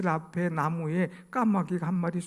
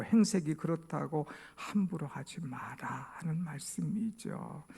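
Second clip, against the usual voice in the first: ordinary talk, nothing marked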